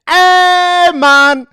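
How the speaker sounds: mock Jamaican, loud and high on "Hey, man"; hammed-up Jamaican patois, poorly done; comic Jamaican accent, exaggerated and sloppy; bad Jamaican accent. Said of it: "my Jamaican accent is horrible".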